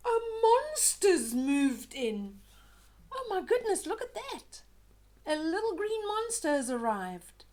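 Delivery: astonished. A narrator's reading. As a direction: shout it in wide-eyed wonder. Child's astonishment at monster.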